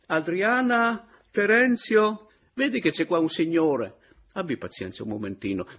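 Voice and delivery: put-on high old man calling out into the flat; old landlord bellowing names down the hall; fussy old landlord. Half-dressed landlord calls his daughter.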